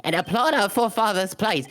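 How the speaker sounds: grand oration that trips and stammers; stumbling speech. Acted. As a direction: start proudly, then stumble on the words. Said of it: "Very well, then. I shall".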